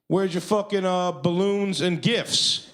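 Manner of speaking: high-pitched indignant host, drawn out at the end; indignant demand. Retold or imitated. Party host confronts hired Winnie the Pooh, indignant. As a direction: demand it like a cheated customer.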